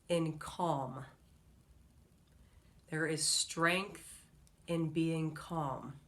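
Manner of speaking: soft, slow calming voice. Acted. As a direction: ease the listener into calm. Calm motivational talk.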